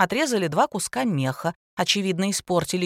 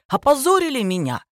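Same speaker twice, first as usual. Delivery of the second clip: indignant; 6 semitones higher, 4 dB louder than usual. A narrator's reading. Humiliated teacher complains.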